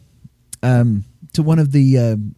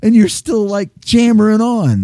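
mock exasperated; 11 semitones higher than usual. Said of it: "It's like".

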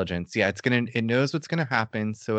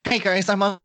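nerdy guy voice; 9 semitones higher than usual. Acted. Mimics the excited nerdy physicist.

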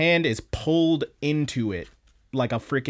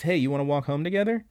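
quick, higher, lightly voiced child; little kid Pets; 4 semitones higher, faster than usual. Little Pets asks Kana to walk home, lightly voiced kid. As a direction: lightly imitate a small child's casual invitation. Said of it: "And little baby Pet says".

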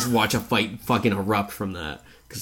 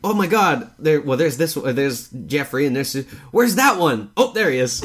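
flustered searching; 4 semitones higher, 3 dB louder than usual. Retold or imitated. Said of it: "it's like".

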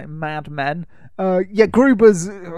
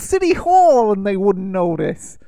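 louder, hammed-up New York street kid; 5 semitones higher, 5 dB louder than usual. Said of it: "the kid says".

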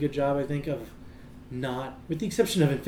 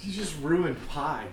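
laughing; 4 dB quieter, much slower than usual. Real, not acted. Laughing at the story.

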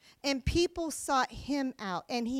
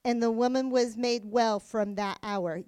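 scripture reading; 3 semitones lower than usual. Acted. Reads scripture passage aloud.

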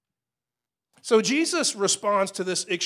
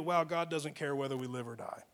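mock despair; 5 semitones lower, 6 dB quieter than usual.

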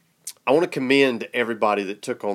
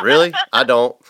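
laughing, louder, amused disbelief; 7 dB louder than usual. Real, not acted. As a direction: laugh it off in surprise.

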